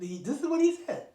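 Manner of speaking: normal talking voice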